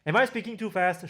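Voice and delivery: ordinary talk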